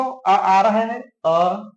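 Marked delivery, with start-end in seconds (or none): 0.0-0.3 the vowel आ said alone, held after the word; sounded-out final vowel. Shown as a demonstration. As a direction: sound out आ on its own for learners. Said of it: "धन बोल के देखो".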